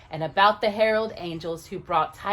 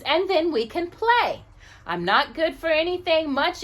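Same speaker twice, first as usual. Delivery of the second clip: lightly higher, kind little angel; tiny angel voice; 5 semitones higher, 3 dB louder than usual. Acted. Tiny angel offering to stay with the boy, lightly higher. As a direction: comfort him as a sweet tiny angel.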